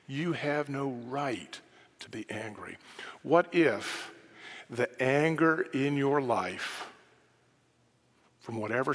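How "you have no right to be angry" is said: soft, firm. Acted. Emphatic quiet conclusion.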